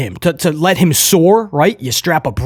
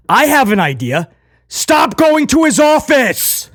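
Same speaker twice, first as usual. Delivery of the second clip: higher, slow, dead-serious quote; earnest slow quote of Priest; sincere Priest impression; 8 semitones higher than usual. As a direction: mimic him deadpan and earnest. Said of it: "the sincerity in his voice".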